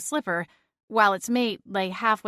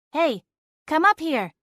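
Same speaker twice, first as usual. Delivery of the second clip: raised voice calling from upstairs; 9 semitones higher, 5 dB louder than usual. A narrator's reading. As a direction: call it down the stairs. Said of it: "Celine called".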